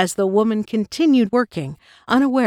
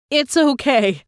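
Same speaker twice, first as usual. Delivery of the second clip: higher, choked-up croak; lightly acted croak, struggling for breath; strained croak; 6 semitones higher, 3 dB louder, slower than usual. A narrator's reading. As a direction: manage a croak after choking on coffee. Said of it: "she finally managed to croak".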